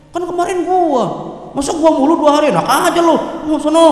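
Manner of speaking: mock sibling quarrel, indignant protest; squabbling sibling. Grown child squabbling over turns nursing sick parent, mock indignant. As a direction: grumble back as if arguing over turns. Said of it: "nungguin, ribut".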